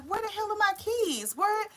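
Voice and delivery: hammed-up flustered hunt for lost keys, slowing down; frantic search. Stoned viewer hunting keys, hammed-up frantic panic. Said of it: "And you like".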